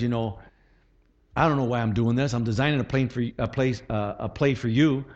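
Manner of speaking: reluctant, hesitant coach, low in pitch; discouraging coach. Acted. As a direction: stumble doubtfully through the play call. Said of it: "could you imagine a coach says like this".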